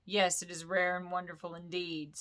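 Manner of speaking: a hint of a smug, pleased dragon; absurdly pleased. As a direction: preen at the flattery.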